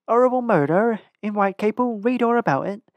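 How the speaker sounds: newsboy cry. A narrator's reading. Newsboy crying out wares.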